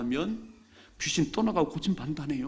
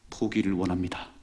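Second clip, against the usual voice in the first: humble request; 6 semitones lower than usual. Acted. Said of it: "이렇게 말하지요".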